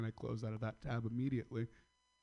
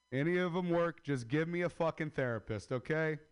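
exasperated rant; 6 semitones higher, 5 dB louder than usual. Acted. Comic ranting demand for therapist.

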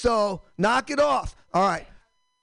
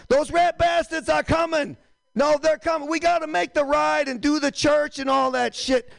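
a hint of a rowdy Boston local rallying for the ride; hammed-up Boston accent, raised pitch; 5 semitones higher than usual. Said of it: "Bostonians back in, you know, the revolutionary times".

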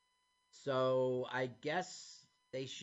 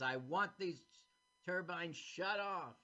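mock Scottish accent; 3 semitones higher than usual. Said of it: "In his Scottish accent".

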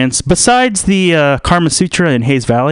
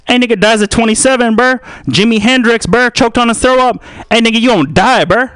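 high-pitched, excitable heckler voice; high put-on voice with rising line ends; taunting heckler; 7 semitones higher than usual. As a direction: goad them in a high, pushy voice. Plays the heckler again.

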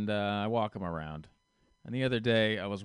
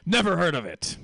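put-on loud, high Russian-accented dismissal; 8 semitones higher, 9 dB louder than usual. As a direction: dismiss it forcefully in a Soviet-style accent. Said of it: "Russian, Soviet type accent. He talked like this".

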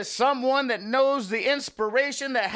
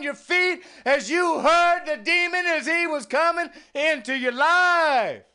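slow, louder, a hint of a fire and brimstone preacher; 4 semitones higher, 3 dB louder than usual. Mimicking a preacher's sermon for his viewers, hinting at hellfire. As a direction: lean into the hellfire, slowly.

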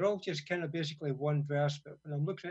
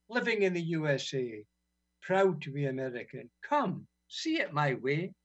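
mocking spoken-word recital; poem reading; 2 semitones higher than usual. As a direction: recite it with biting sarcasm.

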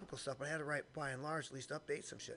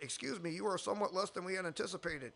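polite heckling; 2 semitones higher than usual. Retold or imitated. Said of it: "my impression of a Mormon heckler".

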